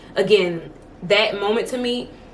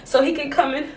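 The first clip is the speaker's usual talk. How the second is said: mock performative crier; 6 semitones higher than usual. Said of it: "maybe it was a little performative".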